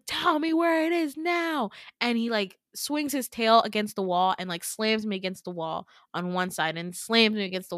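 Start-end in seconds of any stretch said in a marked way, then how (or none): 0.1-1.7 higher, menacing monster command; monster demand. Retold or imitated. Monster presses her for the Doxymora, menacing demand. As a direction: growl the order at your captive.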